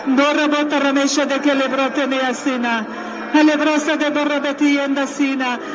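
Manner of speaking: rhythmic prayer in tongues; speaking in tongues. Acted. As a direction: pour out flowing tongues prayer. (nyelveken imádkozás)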